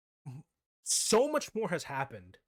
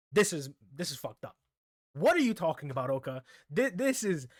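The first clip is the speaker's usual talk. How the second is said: retold outrage; 5 dB louder than usual. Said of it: "I was having a whole fit".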